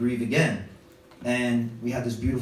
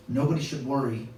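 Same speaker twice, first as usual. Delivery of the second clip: lightly acted soft, slowing speech; gently reassuring eulogy; 4 dB quieter than usual. Uncle ending grandmother's funeral speech, mildly solemn comfort. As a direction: comfort the mourners softly, with pauses.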